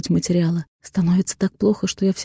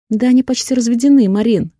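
exclaiming; 5 semitones higher, 5 dB louder than usual. Acted. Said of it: "восклицает Юля".

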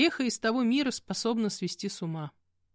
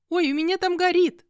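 much higher and louder, in a fluster; alarmed cry; 11 semitones higher, 7 dB louder than usual. Acted. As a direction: cry out when remembering the stove. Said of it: "воскликнула девушка". (испуганный громкий возглас)

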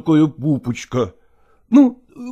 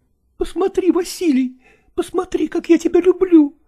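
pleading actress; 13 semitones higher than usual. A narrator's reading. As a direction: make him see your love. Nastina holding him back.

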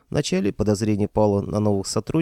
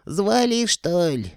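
creaky ghost voice; 9 semitones higher, slower than usual. Acted. Old ghost answering the summons, high creaky voice. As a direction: screech it down from under the ceiling. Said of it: "проскрипел из-под потолка".

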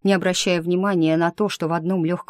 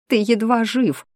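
higher, a touch louder, near tears; sobbing; 5 semitones higher, 3 dB louder than usual. Acted. Heroine sobbing at the wounded man, higher and tearful. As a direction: blurt it through tears. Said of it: "всхлипнула я".

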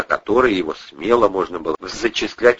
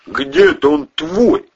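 retorting; 9 semitones higher, 5 dB louder than usual. A narrator's reading. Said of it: "парировал Ковторанг".

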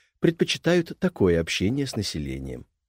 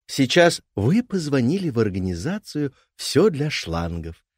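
phone menu voice; 5 semitones higher than usual. Acted. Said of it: "говорю с записью".

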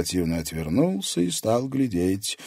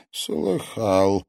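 satisfied; 2 semitones higher than usual. A narrator's reading. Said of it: "удовлетворённо кивнул".

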